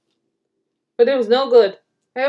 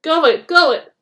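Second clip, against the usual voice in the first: cheering on; 5 semitones higher, 5 dB louder than usual. A narrator's reading. Passengers cheering on the bus.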